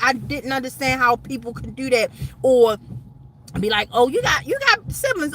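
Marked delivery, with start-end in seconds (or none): 3.9-5.3 imitating a casual question. Imitating girls asking about siblings.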